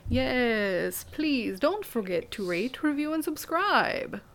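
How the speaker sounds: lightly theatrical grand dame; a hint of an old Hollywood star. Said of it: "I don't know why I'm talking like this".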